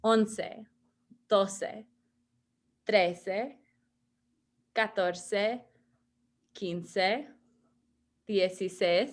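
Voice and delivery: paused, clear model of each number; Spanish numbers modeled. Shown as a demonstration. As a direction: give each number its own beat for repeating. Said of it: "We're going in order".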